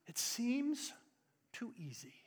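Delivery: whispered doubt. Shown as a demonstration. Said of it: "whispered doubt".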